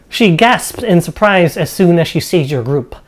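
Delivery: game master's measured narration; storyteller describing a dining hall; scene setting. Acted. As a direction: read out the room description to the players.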